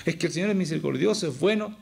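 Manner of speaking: imagined objector's protest; objecting. Acted. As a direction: put it forward as an excuse, pitch lifting at the end. Voices a listener's objection, then concedes.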